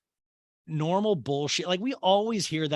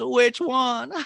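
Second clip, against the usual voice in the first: high, loud punchline in mock matron voice; Patricia; 10 semitones higher, 4 dB louder than usual. Mother joking about her many husbands, high mock-grand delivery. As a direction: toss off the joke, then cackle high. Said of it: "And she goes".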